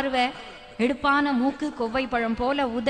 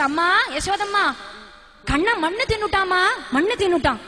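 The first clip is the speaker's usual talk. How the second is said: lightly acted children's complaint, pitched up; children tattling; 4 semitones higher than usual. Children report Kannan to Yashoda, mildly acted tattling. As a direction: tell on a playmate to his mother. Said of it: "குழந்தைகள்லாம் போய் யசோதன் இடத்துல சொல்றது".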